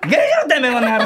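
rough thug bark; delinquent tough talk. Retold or imitated. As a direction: yell it like a street punk. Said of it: "ちょっとした小ボケやろ".

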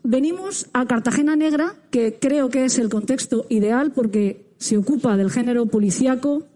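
muffled behind a face mask; speaking through mask. Real, not acted. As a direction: talk with a mask over mouth. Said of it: "tuvimos que hablar con la boca cubierta por la mascarilla".

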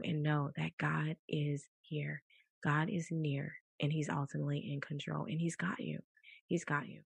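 soft, slowing reassurance, dropping toward a near whisper; quiet reassurance. Real, not acted. Preacher comforting the sick that God is near, softly reassuring. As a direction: comfort the listener gently and softly.

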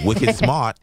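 exaggerated Boston slang delivery; bad Boston accent. Shown as a demonstration. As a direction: push a fake Boston accent hard. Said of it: "more than just an actual Boston accent".

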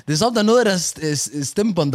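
usual speaking voice

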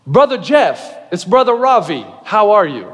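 lightly imitated Indian accent on the phone. Indian caller phones the pastor, imitated Indian accent. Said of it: "that's a pretty good Indian accent".

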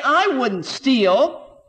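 drawn-out, self-satisfied "I wouldn't steal"; slow smug denial. Retold or imitated. Churchgoer protesting innocence to the preacher, slow and smug. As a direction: stretch every word, pleased with yourself. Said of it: "You who say".

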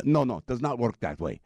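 firm mock Pakistani accent; bad Muslim accent. Driver rejecting the passenger's idea, in a mock Pakistani accent. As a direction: refuse in a faked Pakistani accent. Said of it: "my really bad Muslim accent".

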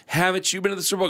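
put-on high, fast kid voice; whiny kid voice. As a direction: whine it like a spoiled kid. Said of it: "He goes".

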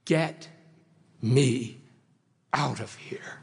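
acted refusal, sinking away at the end; sinner wanting out. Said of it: "he will probably be saying".

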